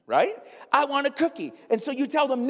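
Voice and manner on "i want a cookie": put-on high whining child's demand; whiny kid. Kid begging parent in the grocery store, whiny. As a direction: whine for it like a kid. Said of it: "with the most whiny voice".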